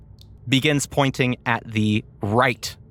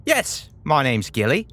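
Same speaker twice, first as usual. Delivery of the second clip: Gilly's voice. Acted. GM answers as Gilly the brain.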